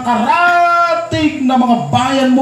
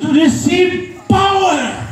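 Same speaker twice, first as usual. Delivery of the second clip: full-force preaching; 4 semitones higher than usual. Acted. Pastor exhorting the congregation, shouting with fire. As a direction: preach it out, building to receive power.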